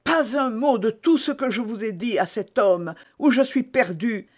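high, intense, pressing; urgent hushed plea. A narrator's reading. Milady urges Felton to say nothing. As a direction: urge him to silence. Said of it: "d'une voix concentrée".

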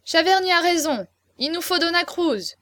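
clamouring agreement. A narrator's reading. Guests join the clamour.

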